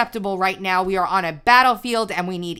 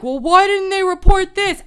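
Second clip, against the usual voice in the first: high, loud whiny mock question; mocking a doubter; 9 semitones higher, 6 dB louder than usual. Ranting host mocks followers who trust the media, high and whiny. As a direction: parrot the doubter in a silly high voice. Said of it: "when you like".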